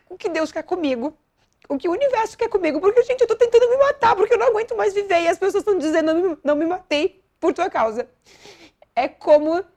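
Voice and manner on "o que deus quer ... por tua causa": gritando cada vez mais alto e agudo, rápido; grito desesperado. Retold or imitated. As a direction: clama aos céus em desespero. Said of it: "e eu dizia". (desesperada, gritando para a amiga Jaque)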